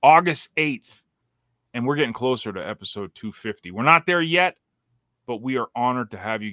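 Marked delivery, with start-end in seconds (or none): 0.0-1.0 booming ringmaster announcement. Pretend. Circus ringmaster style show opening.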